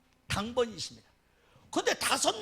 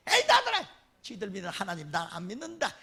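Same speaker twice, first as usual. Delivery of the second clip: mock huff; 3 semitones lower, 3 dB louder than usual. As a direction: storm off in a huff. 성도가 화나서 나가는 흉내. (화나서 교회 떠나는 성도 흉내)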